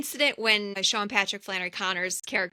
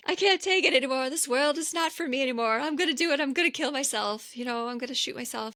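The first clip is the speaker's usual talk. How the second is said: a mother, higher, saying she can't take it anymore; distraught mother; 4 semitones higher than usual. Retold or imitated. Mother on the phone to her twin sons, mock despair. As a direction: play the despairing Irish mom, half-hammed. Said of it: "and she's like".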